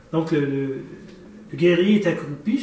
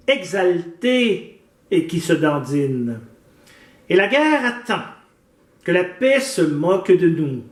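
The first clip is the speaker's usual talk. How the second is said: slow, measured declamation with pauses between phrases; solemnly paced French poetry reading; poem recitation; slower than usual. Acted. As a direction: recite the poem line by line, deliberately. Recites a poem before the interview.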